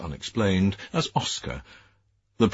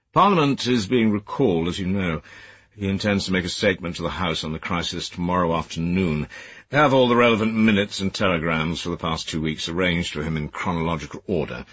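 stern superior. Acted. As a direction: scold like a disapproving senior official. Cleverley gives orders.

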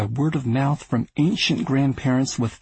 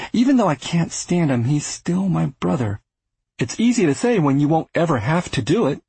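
Arthur, earnest; 4 semitones higher than usual. Acted. Arthur reasoning with Louis.

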